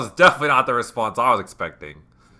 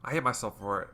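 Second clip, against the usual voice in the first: lightly voiced, slightly raised confession; Yuri; 9 dB quieter than usual. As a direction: confide it with understated distress. Voices Yuri's confession in the game.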